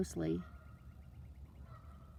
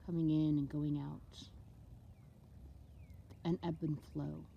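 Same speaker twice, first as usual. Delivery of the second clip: unhurried meditation voice with long pauses; guided meditation; 4 dB quieter than usual. Acted. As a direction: talk them gently through it, letting each phrase settle. Leads a water meditation.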